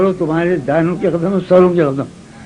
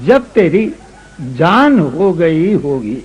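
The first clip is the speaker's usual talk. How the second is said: ghazal recitation; 3 semitones lower than usual. Acted. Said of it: "اب سنو".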